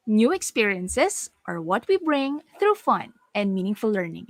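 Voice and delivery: swooping pitch through the statement, settling at the end; vary the pitch phrase by phrase; playing with pitch. Shown as a demonstration. Teacher showing learners different pitches, playful varied pitch. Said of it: "you can actually play with it".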